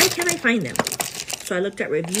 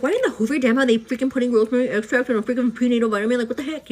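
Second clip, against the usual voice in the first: exasperated rant; 4 semitones higher, 5 dB louder, faster than usual. Retold or imitated. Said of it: "Getting all pissed".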